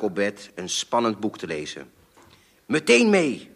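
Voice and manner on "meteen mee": hoog en luid geroepen; vader roept. A narrator's reading. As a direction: roep het de kamer door als ongeduldige vader. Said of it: "hoorde ik mijn vader roepen". (luid roepend, ongeduldig)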